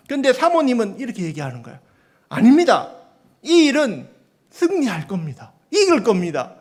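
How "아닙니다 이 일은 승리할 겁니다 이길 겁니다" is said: louder, firm confident claim; wife insisting to the lawyer she will win; bold declaration. Retold or imitated. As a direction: declare it like unshakable faith.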